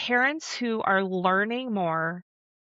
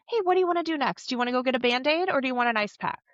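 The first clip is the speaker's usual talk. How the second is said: higher, brisk dad offering fixes; problem-solving dad; 5 semitones higher, much faster than usual. Acted. Dad offers fixes to hurt kid, brisk helpful voice. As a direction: rattle off options, lightly acted. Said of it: "dads might move into more of a".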